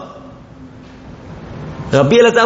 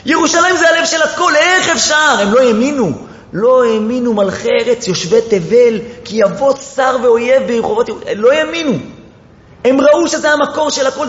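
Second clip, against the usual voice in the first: higher, pleading preacher's wail; impassioned lament; 8 semitones higher than usual. Acted. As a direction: preach the disbelief with rising grief. Laments the loss of Jerusalem. (קינה נרגשת של דרשן, בקול גבוה ומתחנן)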